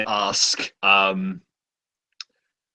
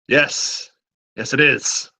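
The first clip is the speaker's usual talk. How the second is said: quartermaster voice. Acted.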